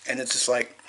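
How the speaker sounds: talking around a mint in the mouth; words shaped around a mint; sucking on a mint. Real, not acted. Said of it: "sorry, I'm sucking on a mint".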